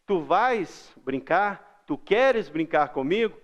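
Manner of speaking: put-on slow, playful kid's invitation; child to a friend. Shown as a demonstration. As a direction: invite your little buddy to play. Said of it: "falava com o Zezinho assim". (criança convidando o amigo, devagar)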